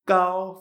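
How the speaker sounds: gao with unaspirated g, held level; no air released. Shown as a demonstration. Teacher pointing out to students, gao without aspiration. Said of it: "fijaros que no sacamos aire".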